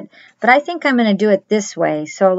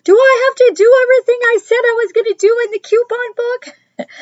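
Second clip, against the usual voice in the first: put-on high, childish voice, a little louder; little son's worried question; 4 dB louder than usual. Little son asking his mom, high anxious child voice. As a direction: play the small boy, worried and pleading. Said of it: "And he goes".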